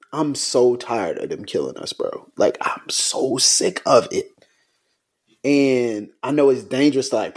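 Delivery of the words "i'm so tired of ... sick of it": weary grief. Real, not acted. Grief over killings.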